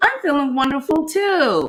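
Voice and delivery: polite, pleasant, sweet, nice phone voice. Retelling own phone call to a doctor's office: imitating own nice phone voice. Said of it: "Y'all know that I have that nice voice".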